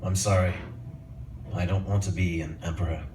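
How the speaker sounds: Jewish barber's speech. Acted. Barber addressing the world, reluctant solemn speech. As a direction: begin a solemn public address, unhurried. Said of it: "the Jewish barber giving a speech".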